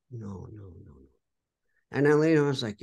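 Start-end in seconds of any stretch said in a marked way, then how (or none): 0.1-1.1 ささやくように弱まる否定; 繰り返す「no」をどんどん小さく消えていく; fading no. Retold or imitated. Refusing the singer, fading away.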